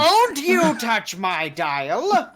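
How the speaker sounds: slow loud indignant. Acted. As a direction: protest slowly and loudly. Doctor Hate protesting.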